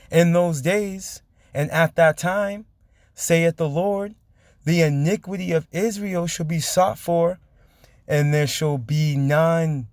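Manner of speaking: slow, drawn-out Bible reading; scripture reading. A narrator's reading. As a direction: stretch out each phrase of the verse. Reads scripture aloud.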